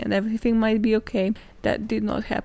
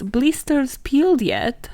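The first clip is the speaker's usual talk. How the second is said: mock menacing question; 4 semitones higher, 3 dB louder, slower than usual. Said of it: "one of the sayings that they used to say".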